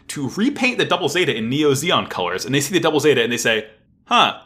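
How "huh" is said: high, loud, slow bewildered question; baffled outburst. Acted. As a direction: blurt it out in raised-pitch confusion. Pilots baffled by what they see.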